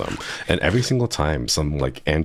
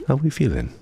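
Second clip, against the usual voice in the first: much higher, put-on Victor accent, a bit strained; Victor accent try; 10 semitones higher than usual. Shown as a demonstration. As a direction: reach up into a shaky Victor accent. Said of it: "I can't get the accent".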